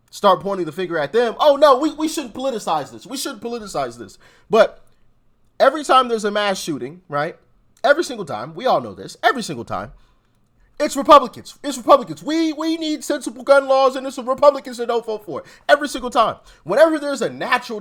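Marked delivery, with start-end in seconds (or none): 1.4-4.2 mock protest. Host parroting Democrats when Republicans point the finger, mock protest. 12.2-15.5 higher-pitched parroted talking point; mocking imitation. Host parroting Democrats after a mass shooting, mocking imitation.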